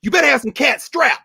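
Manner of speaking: high, laughing mock warning to the witness; a laughing, half-joking caution. Retelling what he said to Mose Wright, high and laughing. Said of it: "I said".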